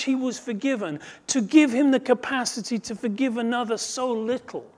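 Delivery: high, loud storytelling sermon, building urgency; impassioned preaching. Acted. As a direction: preach the parable with mounting fervour. Impassioned point after the parable.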